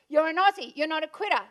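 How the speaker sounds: the father pushing his daughter not to give up; dad's firm command. Retold or imitated. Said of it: "it was my dad. He said".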